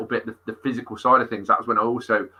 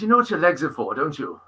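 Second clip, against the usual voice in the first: teasing question in a Welsh lilt; loosely imitated Welsh accent; mock Welsh accent; 5 semitones higher than usual. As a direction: imitate a Welsh friend, pitched up. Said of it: "Welsh, Welsh he was as well".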